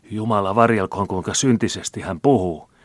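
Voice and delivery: pitiful. A narrator's reading. Old man appalled at talk of money, pitiful. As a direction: bewail it loudly and miserably. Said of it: "virkkoi taas vanhus surkealla äänellä".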